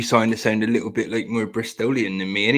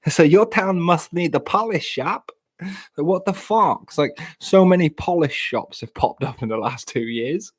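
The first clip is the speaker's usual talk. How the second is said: higher-pitched mock Polish accent; 7 semitones higher than usual. Shown as a demonstration. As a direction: put on an indignant Polish accent. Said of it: "we can all do a Polish accent these days".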